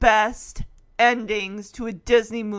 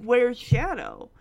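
slower, drawn-out question; weighty question; slower than usual. Retold or imitated. Fan sets up the big moment, slow and weighty. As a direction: spell out the big question slowly.

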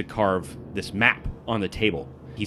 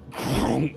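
tags imitated scraping noise; 5 semitones higher than usual. GM imitates table scraping floor.

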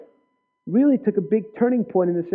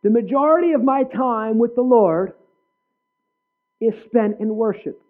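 higher-pitched mock South African accent; South African accent, raised and projected; 4 semitones higher, 4 dB louder than usual. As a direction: imitate a South African woman preacher, pitched up. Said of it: "in her South African accent".

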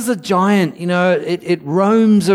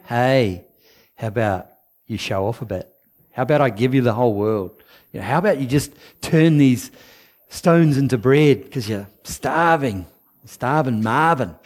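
lower, fast, wheedling tempter; tempting devil; 5 semitones lower than usual. Retold or imitated. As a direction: sell the temptation, slick and quick.

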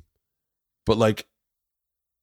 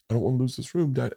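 put-on higher, pleading little-girl quote; imitating tearful child; 4 semitones higher, much faster than usual. Dad retelling daughter begging to keep her room, mild tearful plea. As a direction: plead lightly, as if near tears. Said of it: "she starts fucking crying".

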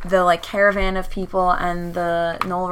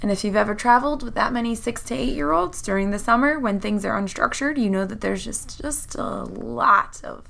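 slightly hoarse, worn-out voice; hoarse from yelling. Real, not acted. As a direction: talk through a tired, rough throat. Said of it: "My voice is a little shot".

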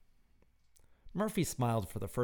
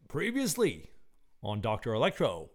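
announcer recap; 3 dB louder than usual. Acted. Recap intro of serial episode.

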